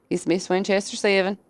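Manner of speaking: light country hick twang on 'Miss Winchester seven'; unintended mild hick accent. Real, not acted. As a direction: let a hint of rural hick accent slip into 'Winchester'. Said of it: "Why'd I say that so hick".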